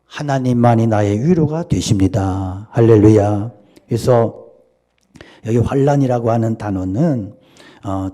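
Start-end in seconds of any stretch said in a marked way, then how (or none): 2.7-3.5 loud hallelujah call. Real, not acted. Preacher calls out to congregation.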